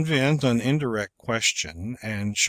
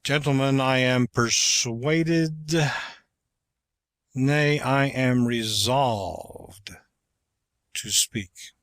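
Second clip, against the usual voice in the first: slow, raised speech-making voice; slow orator; 2 semitones higher, slower than usual. Shown as a demonstration. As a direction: declaim it like an orator. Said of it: "Try the effects of both rising and falling inflections".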